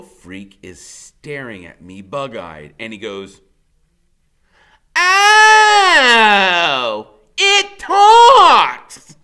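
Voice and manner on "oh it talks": high, loud cry of surprise; small boy yelling in amazement at a talking giant; startled shout. A narrator's reading. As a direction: blurt it out, shocked the giant can talk. Little kid startled, shouting.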